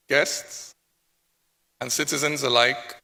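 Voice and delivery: usual speaking voice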